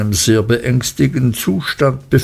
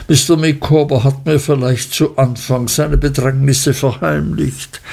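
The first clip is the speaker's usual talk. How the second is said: leicht angedeutete Frauenstimme, beteuernd; Frau Micawber, aufgewühlt; 3 semitones higher than usual. Acted. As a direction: die treue Gattin, etwas höher gesprochen. Frau Micawber beteuert ihre Treue. (leicht höhere Stimme, gekränkt beteuernd)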